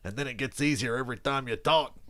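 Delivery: a light impression of a football commentator; lightly voiced coach, leaning on enunciation; John Gruden. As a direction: punch certain words, coach-in-the-booth style. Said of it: "That's a Gruden".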